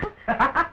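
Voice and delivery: high laugh tipping into crying; half laughing, half crying; tearful laugh. Acted. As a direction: laugh that breaks into sobs. Helen breaks down despite the gag.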